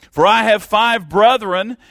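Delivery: high, loud pleading cry from hell; desperate cry. Acted. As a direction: beg for mercy at the top of your voice, desperate. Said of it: "He was desperate".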